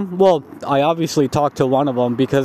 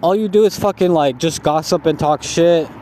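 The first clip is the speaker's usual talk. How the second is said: higher-pitched mock yell at a lazy coworker; retold yelling; 3 semitones higher than usual. Coworker yelling at the lazy guy, higher mock yell. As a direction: rip into him, voice pushed up high. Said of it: "like, yelling".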